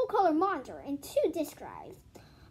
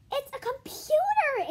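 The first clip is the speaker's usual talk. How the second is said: higher, louder and slow; exclaiming; 12 semitones higher, 7 dB louder than usual. Acted. Teacher to class, delighted exclaim. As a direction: announce it with delight. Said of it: "exclaimed Missus Jules".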